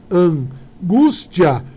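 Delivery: slow stress check on "Angústia"; syllables drawn out. Shown as a demonstration. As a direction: stretch "Angústia" to land on "gús". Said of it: "isso daqui é paroxítona".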